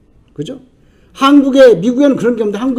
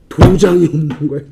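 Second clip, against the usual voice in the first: lower-pitched, held-back disclosure; low reveal; 7 semitones lower than usual. Real, not acted. Preacher revealing the unsealed will, low and held back. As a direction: drop the voice on the revelation.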